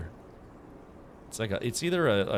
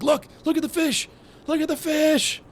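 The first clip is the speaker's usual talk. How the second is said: put-on high, loud, gushing parent voice pushing a baby at the glass; excited parent; 6 dB louder than usual. Parent at the aquarium urging a baby to look, high and squealing. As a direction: play the overeager parent, all squeals.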